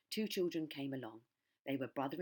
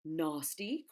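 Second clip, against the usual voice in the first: indignant cry; 5 dB louder than usual. Acted. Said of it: "cried the crocodile".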